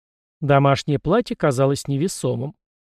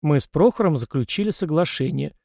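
usual speaking voice

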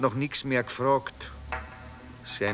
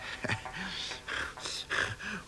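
soft, halting laugh; quiet laugh; 2 semitones higher, 13 dB quieter than usual. Acted. Street man breaking off his comparison, laughing quietly. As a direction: laugh quietly mid-thought. Wry joke about dying in pity.

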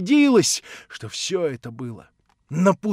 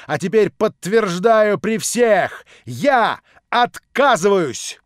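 slow, louder, higher furious cry; Natasha beside herself; 3 semitones higher, 5 dB louder, slower than usual. Acted. Natasha accusing the prince before everyone, beside herself. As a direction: hurl it at him, out of control. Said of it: "вскричала Наташа вне себя".

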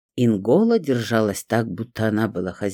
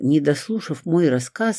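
usual speaking voice

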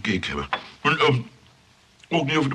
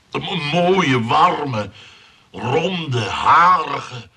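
higher, louder, eager to tempt her; eager sales pitch; 4 semitones higher, 7 dB louder, much slower than usual. Acted. Johan tempting Clivia with a fur hat, eager and loud. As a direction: pile on the praise like a salesman.

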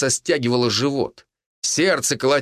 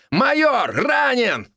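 shout; 13 semitones higher, slower than usual. Acted. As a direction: yell it across the room. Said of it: "проорал тот же голос".

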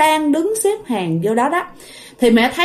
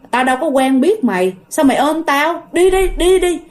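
mock dismissal, rising higher to the end; retold rejection; 4 semitones higher than usual. Grandfather pushes his unrecognised granddaughter away, mock angry dismissal. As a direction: imitate a grandfather shooing a stranger off.

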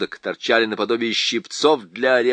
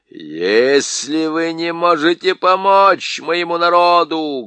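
louder, higher, building to a shout; rising to a shout; 6 semitones higher, 6 dB louder, slower than usual. A narrator's reading. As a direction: let the anger climb into a shout. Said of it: "голос Никабрика поднялся до крика".

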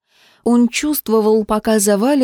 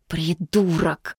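softer, slow sigh of a word; 3 semitones lower, 6 dB quieter, slower than usual. A narrator's reading. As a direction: breathe it out on a sigh, resigned. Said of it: "вздохнул товарищ".

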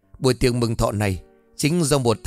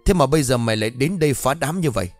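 angry scolding. Acted. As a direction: shout the beggar away in fury. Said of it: "rồi quát".

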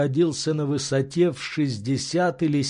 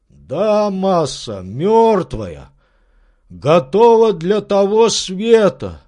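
louder, gloomy servant's voice; servant's grim report; 6 semitones higher, 7 dB louder, slower than usual. Acted. Servant telling his master the branch is dead, grim. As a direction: declare it dead, grimly sure.

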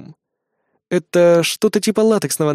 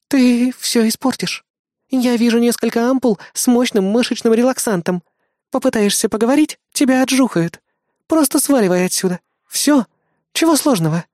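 irritated snort; 7 semitones higher than usual. Acted. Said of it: "Раздражённо фыркнула Эрис".

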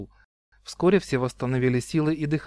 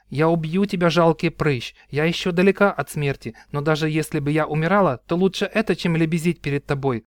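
defiant threat; 3 semitones higher than usual. Acted. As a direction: hurl it at him with pride. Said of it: "и воскликнула".

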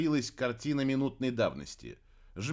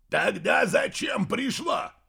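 slow, louder, higher demand; exasperated yell; indignant shout; 7 semitones higher, 4 dB louder, slower than usual. A narrator's reading. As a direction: shout the question at her. Grandpa scolds fairy.

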